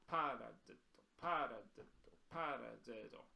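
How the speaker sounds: "Paradiddle" with PA hit first, rest lighter; stress on first syllable. Shown as a demonstration. Drum teacher showing the accent, first syllable of "paradiddle" stressed. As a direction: punch the start of each "paradiddle". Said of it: "we're hitting the first tap with each paradiddle".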